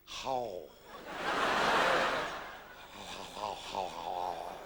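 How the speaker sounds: low, breathy dog noise; Rottweiler noise. Acted. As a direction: huff low and soft like a Rottweiler. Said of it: "This Rottweiler went".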